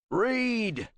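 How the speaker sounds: sharp angry order; one word, like a blow; barked command. A narrator's reading. Kratos twisting the man's arm, barked order.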